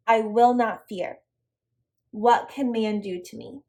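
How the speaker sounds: slow, deliberate verse reading; scripture reading. Acted. Teacher reading a Bible verse to her students, slow and measured. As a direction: read it out slowly, phrase by phrase.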